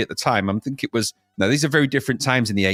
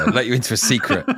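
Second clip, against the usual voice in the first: laughing. Pretend. Letting in on secret, laughing.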